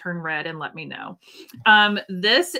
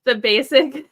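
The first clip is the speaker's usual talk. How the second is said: hiccups; 4 semitones higher, 5 dB louder than usual. Real, not acted. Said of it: "Excuse me, I have the hiccups".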